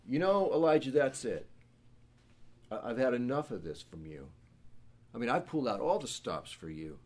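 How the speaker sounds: mock exasperated God. God's imagined angry rebuke.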